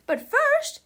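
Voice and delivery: high, loud teacher voice; stern teacher. A narrator's reading. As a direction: announce it over a noisy classroom. Acted teacher addressing her class.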